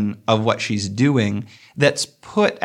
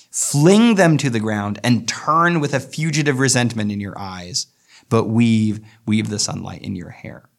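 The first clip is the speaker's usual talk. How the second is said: poem reading. Acted. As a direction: let each line of the poem breathe. Reads the stanza's end.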